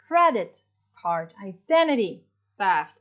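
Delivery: credit card with credit stressed, identity stressed; stress on first word. Shown as a demonstration. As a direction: hit the first word, drop the second. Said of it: "the first word has the heaviest stress".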